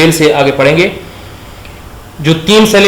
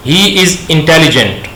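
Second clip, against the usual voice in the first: slow dictation; much slower than usual. Shown as a demonstration. Teacher dictating example sentence.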